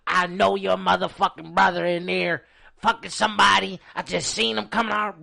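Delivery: imitating her slurring at the door; mock belligerent woman. Friend mimicking the drunk woman at the door, slow and accusing.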